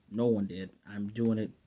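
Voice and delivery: flat robotic monotone. Retold or imitated. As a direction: speak it like a cold robot. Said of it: "very robotic voice".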